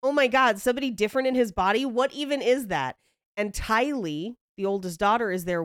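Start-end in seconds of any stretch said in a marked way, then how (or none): 0.0-3.0 flippant laughing-off. Retold or imitated. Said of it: "laughing about it".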